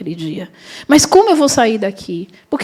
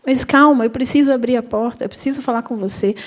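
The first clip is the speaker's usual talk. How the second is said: placating; 3 semitones higher, 3 dB quieter than usual. Retold or imitated. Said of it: "Eu falei".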